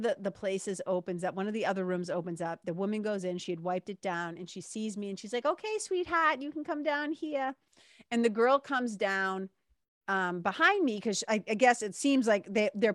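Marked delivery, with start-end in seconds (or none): 5.5-7.5 higher-pitched, lightly sweet beckoning; kindly attendant imitation. Older attendant to waiting customer, kindly beckoning. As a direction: gently call a customer over.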